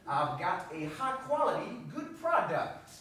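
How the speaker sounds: slow American drawl, y'all and all; laid-back Southern salesman drawl; the speaker's own accent. Acted. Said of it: "do his own accent".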